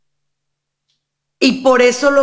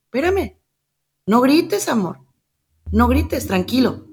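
soothing mother; 2 semitones higher than usual. Retold or imitated. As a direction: coo gently at a crying child. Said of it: "la mamá le dice".

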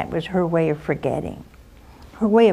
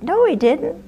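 indignant denial; 9 semitones higher than usual. Retold or imitated. Girl at the courthouse claims he paid, indignant denial. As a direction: jump up in pitch, disbelieving. Denying the clerk's alimony claim.

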